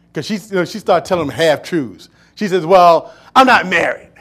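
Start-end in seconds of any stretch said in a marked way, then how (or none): 2.7-4.1 lightly voiced evasive woman. Woman voiced half-truth.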